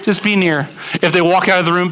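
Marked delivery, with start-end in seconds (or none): 0.0-0.7 higher, laughing mock plea; clingy quality-time person. Quality-time person asking spouse to stay near, in a laughing mock plea. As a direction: beg them to stay, half laughing. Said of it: "You're like".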